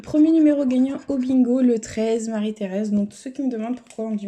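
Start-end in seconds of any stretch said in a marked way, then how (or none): 0.0-2.9 loud, ringing bingo-hall call of the number; bingo caller. Acted. Announcing the winning bingo number to viewers, loud caller's voice. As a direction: call it out like her dad at the loto.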